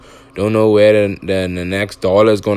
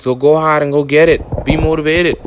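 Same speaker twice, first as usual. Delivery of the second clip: hyped-up sign-off; 6 semitones higher than usual. Real, not acted. Closing motivational hype to listeners.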